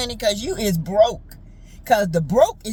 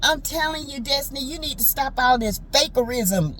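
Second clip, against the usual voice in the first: Aunt Ann voice; 2 semitones higher than usual. Retold or imitated. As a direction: scold like a sassy old aunt. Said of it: "like in my Aunt Ann voice".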